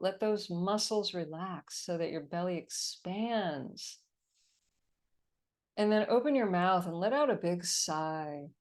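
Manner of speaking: calm, steady meditation guide; guided meditation. Acted. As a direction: lead them gently into relaxation. Leads a meditation on call.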